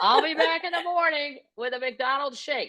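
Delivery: cheery goodbye. Retold or imitated. Daughter leaving agreeable dad at facility, cheery. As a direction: reassure him brightly with a laugh behind it.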